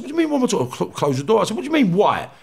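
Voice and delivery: replayed rage, pitch climbing, some words slowed; retold furious tirade. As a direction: tear into him for touching the photos.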